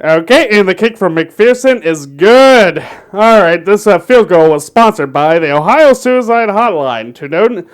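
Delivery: lightly voiced radio sports announcer; a hint of a play-by-play radio call. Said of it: "I'm gonna do my best announcer voice here".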